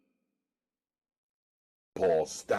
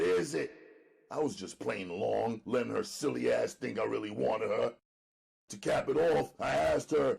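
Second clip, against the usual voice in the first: a higher, streetwise first-person telling; hustler narrator voice. A narrator's reading. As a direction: read the diary as the cool hustler himself. Diary read as the hustler narrator.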